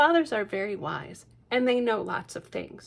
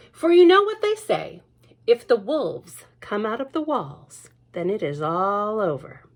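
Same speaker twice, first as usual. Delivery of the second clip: ominous saying; 6 dB louder than usual. Acted. Mother quoting the spooky saying. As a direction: intone it like an old warning.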